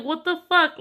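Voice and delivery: high outraged what the; shocked outburst. Retold or imitated. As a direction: blurt it out, appalled. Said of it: "I'm like".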